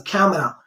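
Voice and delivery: "camera" said the corrected way; proper pronunciation. Shown as a demonstration. Teacher giving learners an example sentence, proper "camera". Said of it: "You have to pronounce it, uh, properly".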